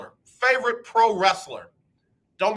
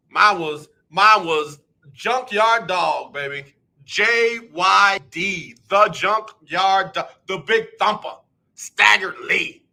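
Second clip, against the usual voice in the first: slow emphatic hype; 4 dB louder, slower than usual. Acted. Streamer savoring his favorite wrestler's names for chat, slow and loud. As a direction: stretch each nickname out, loud and slow.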